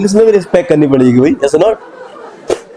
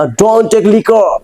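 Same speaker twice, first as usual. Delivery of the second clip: mock angry; 5 semitones higher, much slower than usual. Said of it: "गुस्से में angry अंदाज में कहा".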